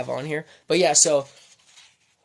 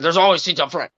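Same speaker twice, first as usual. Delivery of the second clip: irritated usher, a bit raised; usher impression; 2 semitones higher, 3 dB louder than usual. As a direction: imitate a testy church usher. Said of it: "this is how he sounded".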